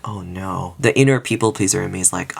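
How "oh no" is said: small, soft retold dismay; quiet dismay. People pleaser seeing friends disappointed, quiet retold dismay. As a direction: drop the volume in mock dismay.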